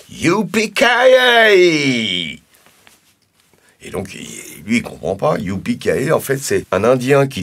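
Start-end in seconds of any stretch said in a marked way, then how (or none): 0.1-2.4 drawn-out cowboy cry; long cowboy yell. Retold or imitated. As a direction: stretch it into a long whoop. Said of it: "il fait". (long cri de cow-boy)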